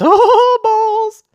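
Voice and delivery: very high laughing oh balls; very high laughing curse; laughing dismay. Real, not acted. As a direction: squeal it out through a laugh.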